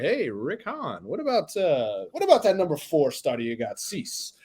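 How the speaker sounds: lightly put-on general manager making a trade pitch; Dave Dombrowski. GM calls Rick Hahn about a pitcher, Dave Dombrowski impression. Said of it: "that was just my Dave Dombrowski impression".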